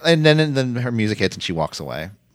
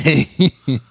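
imitated giggle. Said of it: "who's like".

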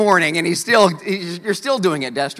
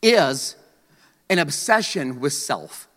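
slow definition; 5 semitones lower, slower than usual. Shown as a demonstration. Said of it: "That's a good definition".

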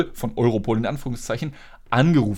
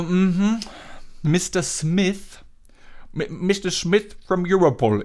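sceptical repeat; 4 semitones higher, slower than usual. Retold or imitated. Mockingly repeating caller's name.

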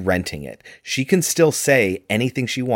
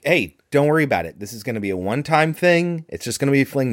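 higher, quick mock reassurance; casual coaxing; 5 semitones higher, faster than usual. Woman coaxing a man into a fling, casual coaxing. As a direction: breezily talk him into it. Voicing her casual proposition.

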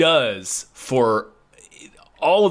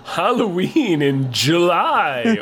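spooky voice; 5 semitones higher, slower than usual. Pretend. Mock spooky greeting.

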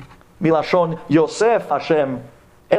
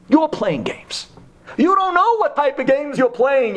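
higher and heated, rising fury; angry rebuke; 11 semitones higher, slower than usual. Acted. Yaakov rebuking Lavan, higher and heated. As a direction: throw the accusation back at him. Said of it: "who was upset and angry and demands".

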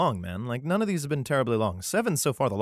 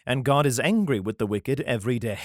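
steady, solemn reading of a psalm; scripture reading; 4 dB louder than usual. Acted. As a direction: read it like a Bible passage. Reads the psalm aloud.

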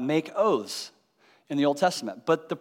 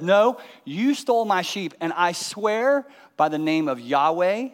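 insistent accusation; 2 semitones higher than usual. Retold or imitated. Neighbor insists on stolen sheep.

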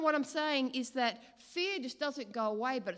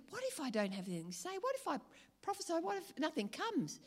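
anxious rising panic; 7 semitones higher, 5 dB quieter, faster than usual. Retold or imitated. Anxious thoughts retold, high pitch.

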